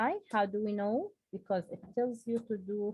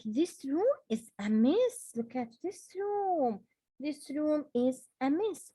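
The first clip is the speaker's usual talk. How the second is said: higher, exasperated complaint about the mess; annoyed exclamation; 4 semitones higher than usual. Shown as a demonstration. Teacher demonstrating an annoyed exclamation, exasperated. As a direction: scold about the messy room. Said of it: "An example for exclamation sentence".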